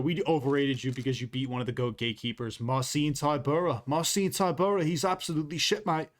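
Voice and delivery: lightly put-on British accent drifting Australian; half-hearted British accent slipping into Australian; trash-talk in a loose British accent; mock British accent. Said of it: "that's my problem with the British accent".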